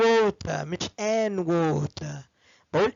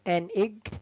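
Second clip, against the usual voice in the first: slow model words; much slower than usual. Shown as a demonstration. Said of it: "زي ما أقول".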